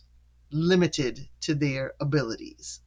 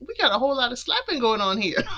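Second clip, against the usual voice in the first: quick, high-pitched jokey quip; high joking voice; 9 semitones higher, faster than usual. Retold or imitated. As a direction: toss it off in a high silly voice. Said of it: "I was like".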